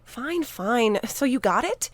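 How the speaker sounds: out of breath, asking between gasps; breathless after running through the woods; panting. Acted. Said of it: "he panted".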